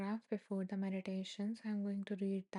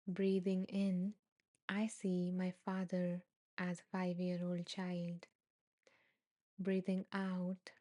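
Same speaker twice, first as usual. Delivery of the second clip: unhurried reading of a meditation passage. A narrator's reading. Reads meditation text aloud.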